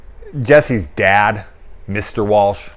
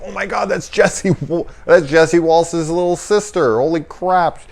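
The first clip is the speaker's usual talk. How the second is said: high, thrilled recognition, half-mocking herself; retold freak-out; 9 semitones higher than usual. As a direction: gasp at spotting the actor all grown up. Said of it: "I was freaking out about it".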